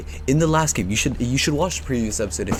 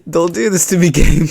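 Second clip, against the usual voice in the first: loud plea; 6 semitones higher, 7 dB louder than usual. Real, not acted. Pleading again.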